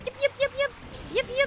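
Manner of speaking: high little yips; yappy chihuahua voice. Retold or imitated. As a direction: yip like a tiny dog. Imitating small dog yips.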